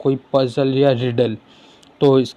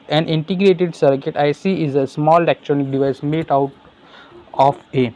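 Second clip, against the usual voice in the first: very slow, careful question read-out; slow classroom dictation; much slower than usual. Acted. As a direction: spell it out slowly for students. Reads exam question aloud.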